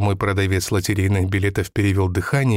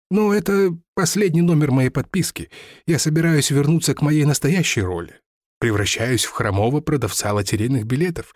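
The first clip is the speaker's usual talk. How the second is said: lightly voiced lottery seller; 2 semitones higher than usual. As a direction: recount lost riches with mild bitter pride. Seller returns to his role.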